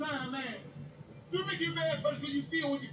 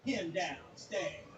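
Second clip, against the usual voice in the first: mocking kid; 6 semitones lower, 4 dB quieter, much slower than usual. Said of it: "he gonna tell her".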